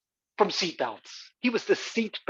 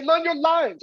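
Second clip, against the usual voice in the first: mock angry order; 11 semitones higher, 3 dB louder than usual. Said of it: "come charging backstage and say".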